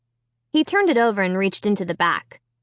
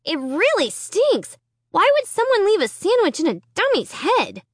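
holding nose; 10 semitones higher than usual. A narrator's reading. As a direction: talk with your nose held shut. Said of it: "holding my nose".

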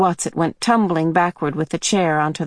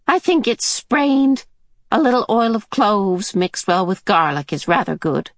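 put-on old woman voice; 4 semitones higher than usual. Mrs Watson to the family, high old lady voice. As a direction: play the odd old woman, lightly high.

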